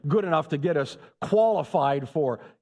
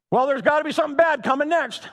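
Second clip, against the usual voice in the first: higher, louder mock fretting voice; mock worried believer; 12 semitones higher, 6 dB louder, faster than usual. Preacher mocking a believer who expects bad luck, higher fretting voice. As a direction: play the anxious believer waiting for the catch. Mocking pessimistic Christians' inner voice.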